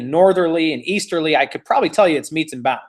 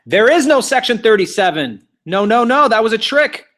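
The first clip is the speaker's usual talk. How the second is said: excited reveal; 4 semitones higher, 4 dB louder than usual. Real, not acted. Reveals trick question excitedly.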